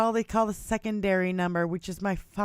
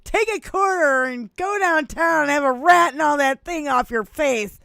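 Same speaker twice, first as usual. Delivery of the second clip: Uncle Buck impression; 6 semitones higher, 6 dB louder than usual. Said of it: "the scene in Uncle Buck when he's like".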